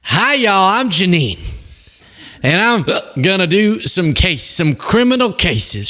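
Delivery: teasing parody of a prosecutor announcing cases, hammed-up Southern twang; mock Jeanine Pirro accent. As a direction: play her as a folksy Southern prosecutor, hammed up. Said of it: "That's not her accent".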